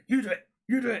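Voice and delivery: half-laughing nagging impression; imitated bossy wife. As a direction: raise your voice into playful bossy orders. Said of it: "got the whip out and gone".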